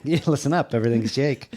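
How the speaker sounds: lightly imitated forties movie tough talk; a hint of old-film patter; 1940s movie talk. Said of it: "sounds like she's from a nineteen forties movie".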